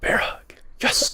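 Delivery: unvoiced excited whisper; whispered cheer. Real, not acted. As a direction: whisper a little victory. Whispered celebration.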